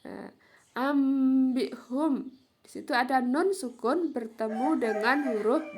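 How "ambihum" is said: AMBIHUM very slow with a long hummed m; iklab reading. Shown as a demonstration. Teacher demonstrating mim sukun, m held long. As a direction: linger on the m of AMBIHUM before b. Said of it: "dibaca mim sukun".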